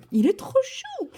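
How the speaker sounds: high, squealing gush over something adorable; gushing over cuteness. Real, not acted. Painter gushing to viewers over her cute axolotl, high squeal.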